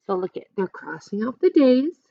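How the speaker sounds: usual speaking voice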